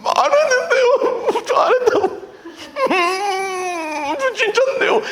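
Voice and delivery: high, squealing mock-tearful plea; 겁먹고 울먹이기. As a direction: whimper your innocence like a terrified defendant, hammed up. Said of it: "이렇게 된다고요". (겁에 질려 과장되게 울먹이는 목소리)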